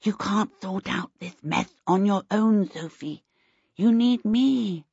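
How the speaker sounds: put-on small, lisping boy voice; sweet little voice. A narrator's reading. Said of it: "Twinkle's sweet little voice replied".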